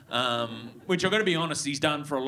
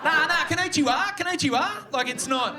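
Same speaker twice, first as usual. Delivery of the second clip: laughing; 9 semitones higher than usual. Pretend. Mock Japanese greeting, laughing.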